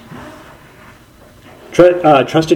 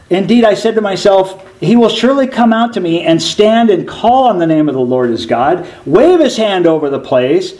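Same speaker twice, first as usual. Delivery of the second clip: raised, higher indignant protest; furious Naaman; 6 semitones higher than usual. Acted. Naaman, refused a greeting by the prophet, protesting in mock outrage. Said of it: "Naaman became furious".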